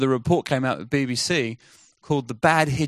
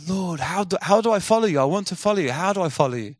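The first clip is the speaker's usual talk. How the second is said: eager pleading; 5 semitones higher than usual. Retold or imitated. Woman pleading with Jesus in dream.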